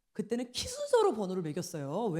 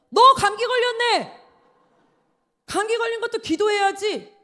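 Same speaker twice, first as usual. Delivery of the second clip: mock preacher exclaiming; 9 semitones higher, 12 dB louder than usual. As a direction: ham up the pushy revival preacher catching a cough. Imitating preacher's loud exclamation. (기침 소리에 호들갑 떠는 부흥 강사 흉내, 높고 크게)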